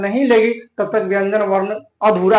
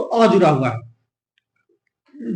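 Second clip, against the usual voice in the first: stretched अ; 4 semitones lower, much slower than usual. Shown as a demonstration. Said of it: "क के साथ क्या जुड़ा हुआ है".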